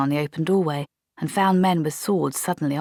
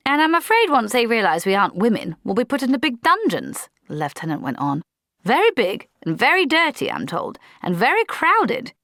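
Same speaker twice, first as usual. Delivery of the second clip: higher, anxious worried lieutenant; fretting officer; 7 semitones higher, 3 dB louder than usual. A narrator's reading. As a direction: fret over the dungeons. Blouse fretting about dungeons.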